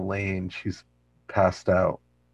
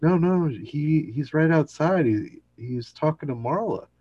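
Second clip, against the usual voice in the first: flustered protest; 9 semitones higher, 3 dB louder than usual. Retold or imitated. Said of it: "George is like".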